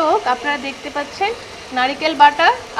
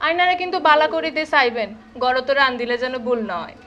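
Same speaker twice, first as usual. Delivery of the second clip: speaking the Chittagong dialect; Chittagong Bengali accent; 4 dB quieter than usual. Pretend. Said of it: "কি আফা, আমার ভাষা হয়েছে তো?".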